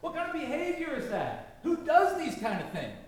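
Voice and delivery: high-pitched exasperated rant, not full volume; mock screaming at the television. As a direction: rant helplessly at the TV news. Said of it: "were you screaming at the television set".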